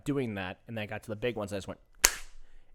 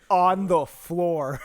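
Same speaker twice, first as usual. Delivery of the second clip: shocked shout; 6 semitones higher, 9 dB louder, much slower than usual. Real, not acted. Shocked at friend's story.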